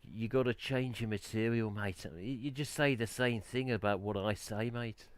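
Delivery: put-on Black Country workmate; Black Country accent. Imitating a chap at work complaining about material, Black Country accent. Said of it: "I can do his voice and get a bit of his accent".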